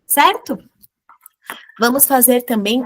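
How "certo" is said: whisper. Real, not acted.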